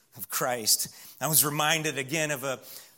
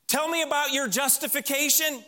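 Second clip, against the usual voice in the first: gatekeeper angel; 8 semitones higher than usual. Acted. Angel at heaven's gate questions the thief, lightly voiced. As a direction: play the angel quizzing the newcomer, mildly. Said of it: "the angel at the gate of heaven saying".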